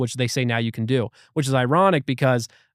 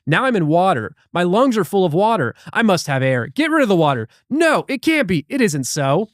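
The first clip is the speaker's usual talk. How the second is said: acted panic; 4 semitones higher, 4 dB louder than usual. Acting out a drowning vision.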